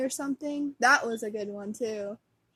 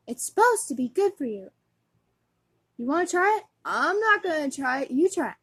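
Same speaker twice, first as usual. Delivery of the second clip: raised put-on kid voice; acted squabbling brothers; 4 semitones higher, 3 dB louder, faster than usual. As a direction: bicker like boys at breakfast. Boys arguing over cereal, acted.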